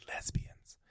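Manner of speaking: imitating a mother's hushed whisper. Mom confiding in her son about what she saw, whispered. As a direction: whisper it as if the word were taboo. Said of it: "and she whispers".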